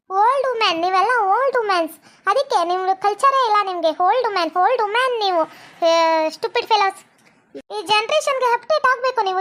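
sing-song, swooping taunts; scornful. Acted. Modern girl calling villagers old women, haughty and scornful. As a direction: jeer with showy English insults.

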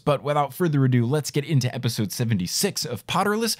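measured episode intro read; podcast promo read. Acted. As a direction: read the plug smoothly, lifting each item. Recorded patron plug and episode intro.

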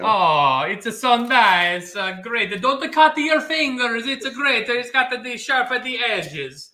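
high, over-the-top encouraging gush; mock cheerleader praise. To the friend grating cheese, gushing mock praise, pitched high.

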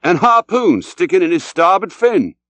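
high, animated seafarer spinning a yarn; lively captain's character voice; Englishman telling his tale. A narrator's reading. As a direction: tell the sea tale with rising energy.

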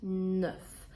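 NEUF like a soft "nyof"; soft N, rounded vowel. Shown as a demonstration. Teacher spelling out the sound, careful NEUF. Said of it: "Це ніби як N, м'який знак О Ф".

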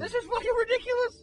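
high-pitched cry of frustration; strained, indignant high yelp; exasperated outburst. Acted. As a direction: yell it, fed up and helpless. Acted outburst while being spun around.

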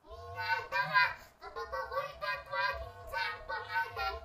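airy, voiceless processed recitation; whispery voice effect. Shown as a demonstration. Reciting a verse about one's name, whispery voice effect.

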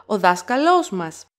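"δάσκαλός μας" run together with a second accent on λός; "μας" attached closely to "δάσκαλός"; joined as one word. Shown as a demonstration. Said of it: "they sound as one word".

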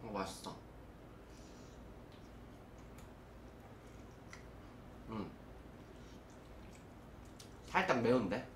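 talking while chewing chicken; muffled words around food; mouth full chewing. Real, not acted. Seen 0: Hand feeds chicken to mouth, cheeks chewing throughout labelled words.

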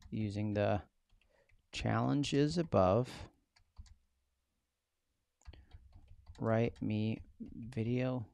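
slow, word-by-word dictation. Real, not acted. Host dictating his prompt to the class while typing, slow. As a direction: spell it out as you type.

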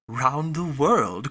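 slow, drawn-out ROUND THE WORLD in disbelief; astonished echo. Acted. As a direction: Fix stunned by Passepartout's news, slow astonished cry. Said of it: "cried Fix".

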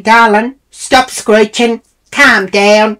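high, loud, slow patronising calm-down; condescending. Retold or imitated. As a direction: talk down to her like a child. Patronising the yelling woman.

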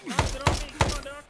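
high, loud call for the medic; shouting. Real, not acted. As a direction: bellow across the battlefield. Calling medic during firefight.

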